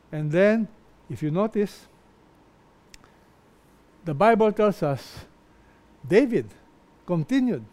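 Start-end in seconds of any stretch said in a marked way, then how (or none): none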